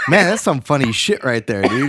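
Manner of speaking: chuckling through the words; amused inner voice, laughing. Retold or imitated. Thinking up the bit, laughing to himself. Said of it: "I was like".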